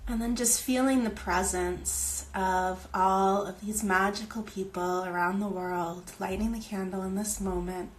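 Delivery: unhurried visualization with long pauses; guided meditation. Real, not acted. Host leading viewers through a candle circle ritual, meditative. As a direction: gently guide listeners inward, phrase by phrase.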